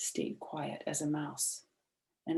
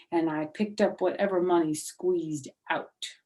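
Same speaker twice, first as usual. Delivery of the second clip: lightly voiced bossy girl, a bit louder; prim girl; 4 dB louder than usual. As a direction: boast of your own good manners. May boasts about her dignity.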